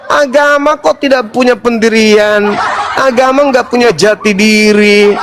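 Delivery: high, laughing ridicule; mock with a laugh; scornful laughing mockery; mocking laughter. Real, not acted. Mocking the other faith.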